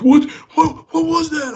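very high, squealed mock panic; imitating panic. Three friends panicking at what they just saw, high-pitched panicked imitation. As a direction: shoot the voice way up like panicked people. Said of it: "like, panicking".

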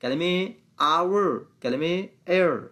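"hour" and "air" slowly, starting on the vowel; silent H. Shown as a demonstration. Teacher listing silent-H words, slow model pronunciation. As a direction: draw out each word without any H. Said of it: "حرف اچ در اینا نباید تلفظ شه".

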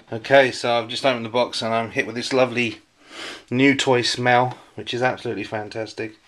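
breathing heavily while talking; slightly asthmatic, audible breaths; heavy breathing. Real, not acted. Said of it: "sorry about my breathing".

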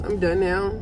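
numb mouth, slurred words; numb from the dentist. Real, not acted. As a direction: talk through a numb mouth. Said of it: "my mouth is numb".

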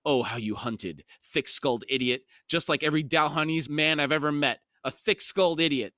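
a touch of scornful bickering; sneering. Acted. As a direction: jeer at him with understated contempt. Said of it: "The woman sneered".

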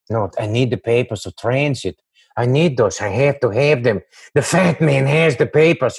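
lightly voiced pleading Peter Lorre; a hint of Lorre's wheedling whine; Peter Lorre impression. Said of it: "I used to do all those".

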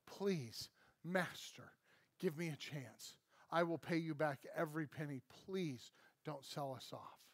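soft, hushed pleading to the master; begging. Acted. Servant begs the king at his feet, soft and pleading. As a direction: beg quietly for mercy. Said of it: "he begs him".

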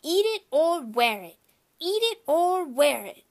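high, loud tantrum shout; toddler screaming. A narrator's reading. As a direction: yell it like a furious little boy. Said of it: "Fudge screamed".

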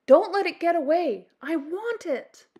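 high, loud spoiled princess; spoiled demand. Acted. Princess orders guards to catch the bird, spoiled demand.

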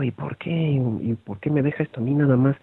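protesting pupil, lightly acted; imitated student protest. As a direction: quietly mimic pupils objecting to an assignment. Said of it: "están ahí replicando".

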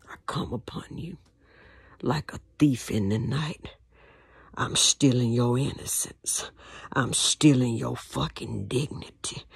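low hushed menace; lightly voiced predator. Abuser taunting the victim, low and menacing.

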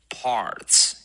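parts drawn out with a curled R before ts; slow model of parts, strong R; curled-tongue R. Shown as a demonstration. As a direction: hold the R in parts, tongue back. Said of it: "也要卷".

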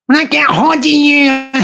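lightly voiced wee woman threatening him; mock angry wee woman. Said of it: "Even the wee woman".

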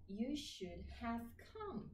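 every word stressed evenly like a machine; You should have come with equal weight on every word; robotic full form. Shown as a demonstration. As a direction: say each word flat and separate, like a speech synthesizer. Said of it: "si on parle comme ça, ça marche pas".

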